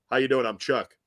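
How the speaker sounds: mock low-voiced introduction, slightly dropped. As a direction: imitate a man lowering his voice to introduce himself. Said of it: "made his voice go lower".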